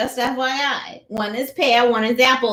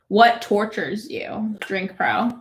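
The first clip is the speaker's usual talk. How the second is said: weird sultry voice; 2 semitones lower, slower than usual. Acted. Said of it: "That voice is weird".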